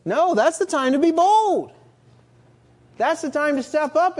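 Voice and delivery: loud, high preaching push; bold urging. Real, not acted. Preacher rousing the church to be bold, loud and high. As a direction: rouse the congregation to step up.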